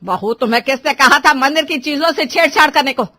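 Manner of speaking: loud, indignant telling-off; stern scolding. Acted. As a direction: take the daughter-in-law to task. Mother-in-law scolds the bride. (बहू को डाँटती सास)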